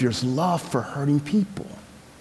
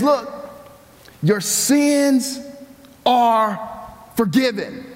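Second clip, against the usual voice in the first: higher, ringing declaration of forgiveness; proclaiming; 6 semitones higher, slower than usual. Acted. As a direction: announce it with authority. Jesus voiced, raised declaration.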